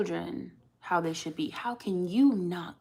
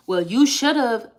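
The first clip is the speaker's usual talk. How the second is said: mock critic; 5 semitones higher, 10 dB louder, slower than usual. Mocking critics of single moms.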